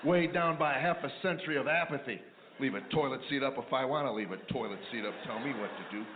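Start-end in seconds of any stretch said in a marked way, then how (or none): 2.6-6.0 low, muttering grumble to himself; lightly voiced henpecked husband muttering; mumbling old husband. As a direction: grumble it under your breath like a beaten husband.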